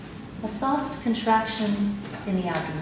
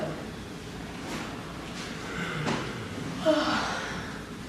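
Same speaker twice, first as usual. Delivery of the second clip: long airy yawn with the class; yawning sigh; 4 semitones lower, 11 dB quieter than usual. Shown as a demonstration. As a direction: yawn it all the way through.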